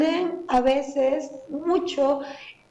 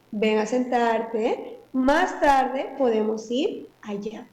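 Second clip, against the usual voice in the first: slow, patient invitation; gentle invitation; much slower than usual. Shown as a demonstration. Mother patiently coaxes child to sit down, slow and gentle. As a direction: coax the child calmly. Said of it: "le puedes decir".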